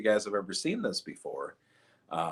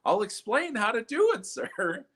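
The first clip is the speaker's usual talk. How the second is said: mock loudspeaker; 10 semitones higher than usual. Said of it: "going over the loudspeaker".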